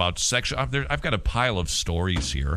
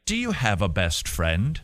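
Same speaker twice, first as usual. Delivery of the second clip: British teacher questioning a pupil, lower; British accent; 3 semitones lower than usual. Acted. Teacher asking Tony about his best friend, British accent. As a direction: ask it with a put-on British accent. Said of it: "this is my British accent again".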